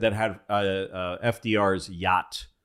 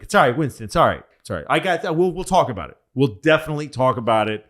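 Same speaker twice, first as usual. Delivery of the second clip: soothing brush-off; 4 semitones higher, 4 dB louder, much faster than usual. Retold or imitated. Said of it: "F D R is like".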